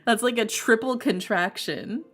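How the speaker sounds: ordinary delivery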